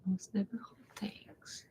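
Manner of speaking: whispered, thinking aloud; whispering to herself. Real, not acted. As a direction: murmur it under your breath while thinking. Repeats question to herself thinking.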